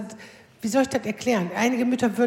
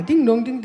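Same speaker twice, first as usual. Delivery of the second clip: light sung bell tones, falling; ding-dong doorbell imitation. Repeating the double ring to courier, sung bell. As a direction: hum out the doorbell again for him.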